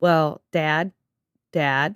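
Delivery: put-on monotone kid voice. Retelling how a kid on a recording called his father, imitating a monotone kid. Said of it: "he's just like kind of monotone".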